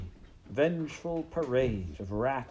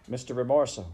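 higher, louder anxious call; small shout; 4 semitones higher, 6 dB louder, faster than usual. A narrator's reading. Mouse shouting for his guide, small shout. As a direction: call the name out, raised but not full. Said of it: "he shouted".

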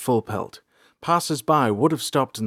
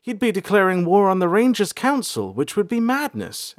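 higher, louder, rushed denial; panicked; 10 semitones higher, 5 dB louder than usual. A narrator's reading. April panicking about her father, high and louder. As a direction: talk herself out of fear. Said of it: "April said, panicked".

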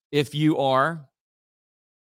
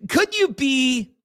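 sudden shout; 9 semitones higher, 4 dB louder, slower than usual. Real, not acted. Sudden shouted game question.

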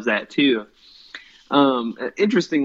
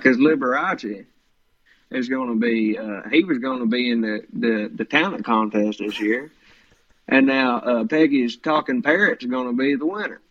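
Roy D Mercer. Retold or imitated. Father grumbling about the gerbil's lost talent contest, hick voice. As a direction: lightly imitate a Southern hick caller. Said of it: "he does a hick voice".

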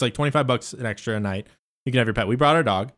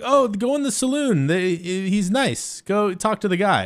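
put-on higher-pitched woman's voice, no accent; retold invitation in a higher voice; imitated Russian lady; 5 semitones higher, slower than usual. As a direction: lightly voice her friendly advice, pitched up. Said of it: "but she's like".

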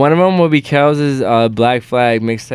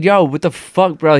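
higher-pitched, retold exasperation; exasperated retort; 4 semitones higher than usual. Guest retelling his reply to people comparing him to Mac, exasperated. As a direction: replay an indignant comeback.

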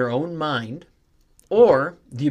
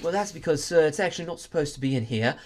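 put-on British accent; 3 semitones higher, 4 dB quieter than usual. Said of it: "a British museum".

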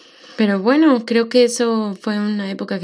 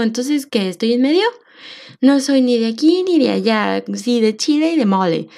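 confused; 2 semitones higher than usual. Retold or imitated. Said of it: "Y yo me sentía como".

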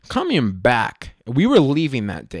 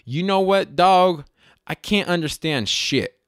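higher-pitched mock Cholo, in English; stereotypical Cholo slang; 7 semitones higher, 3 dB louder than usual. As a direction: translate it with streetwise Cholo swagger. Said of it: "stereotypical thing".

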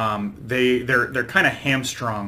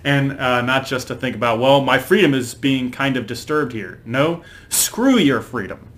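put-on Schwarzenegger accent; 4 dB louder than usual. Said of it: "that's a terrible, terrible accent".

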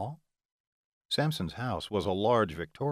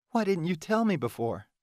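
tearful female voice; 9 semitones higher than usual. Acted. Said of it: "Delilah sniffed".

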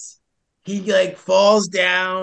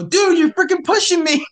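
loud, high fed-up protest; fed up with the hiker's demands; exasperated outburst; 10 semitones higher, 6 dB louder than usual. Retold or imitated. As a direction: let the frustration burst out.

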